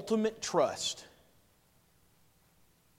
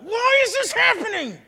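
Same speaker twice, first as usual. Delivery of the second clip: much higher, louder exasperated yell; 9 dB louder than usual. Retold or imitated. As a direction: cry it out to the sky in frustration. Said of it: "I yell out".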